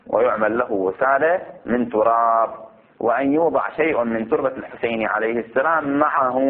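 deliberate, phrase-by-phrase recitation; measured classical Arabic reading; formal text reading. Acted. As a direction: read the ruling out with stretched endings. Reads the book text aloud.

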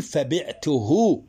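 فبعته drawn out slowly with a rising end; slow teacher demo; slow example. Shown as a demonstration. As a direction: stretch فبعته for the class. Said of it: "تقول".

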